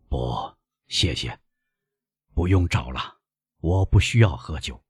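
lightly voiced frail old man; weak old father. Weak father declines the wine.

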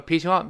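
'pick you up' linked with too much force; forced linking. Shown as a demonstration. Teacher showing students the wrong, forceful link, heavy-handed 'pick you up'. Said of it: "连读都不能用力气，不能说".

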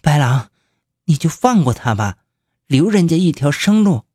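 begging for his life; pleading. Acted. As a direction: plead with rising desperation. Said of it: "他哀求着白狼说".

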